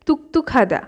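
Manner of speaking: তুকতুকাদা with tense t sounds. Shown as a demonstration. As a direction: hit the t in তুকতুকাদা tightly. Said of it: "ত যে আমি উচ্চারণ করছি". (তুকতুকাদা-য় জোড়া ত)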